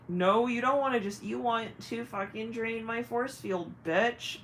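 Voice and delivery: acted sassy comeback, punched start; indignant retort. Target answering an energy drainer, indignant. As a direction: call out the faker.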